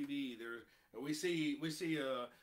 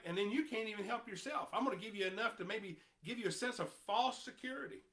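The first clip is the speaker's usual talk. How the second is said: quick, sly taunting voice; mocking; 4 semitones higher, faster than usual. Preacher voicing Satan offering false security, mockingly. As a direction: lull them with false hope, sneering.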